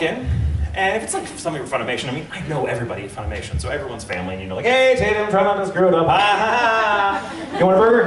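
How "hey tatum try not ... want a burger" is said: lightly voiced joshing coworker, a bit higher; breezy mock-teasing studio banter; chummy colleague. Studio pals greet a regular actor, chummy.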